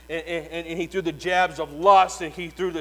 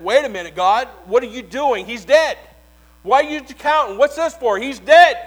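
louder, rising alarm of a cornered devil; panicked devil; 6 semitones higher, 11 dB louder than usual. Acted. Preacher playing Satan protesting God's count, panicked and loud. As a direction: protest to God in growing panic.

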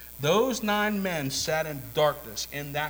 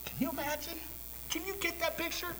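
marveling; 6 dB quieter, faster than usual. Real, not acted. Preacher marvels at the congregation.

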